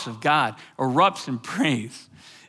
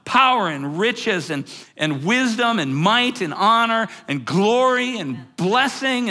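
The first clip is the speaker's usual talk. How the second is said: slow, mounting list of acclamations; retold shouted praise; 6 semitones higher than usual. Preacher imitating angels who go on and on, mild slow shout. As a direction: draw out each word of praise, lifting the pitch. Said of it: "they go on and on and they're shouting".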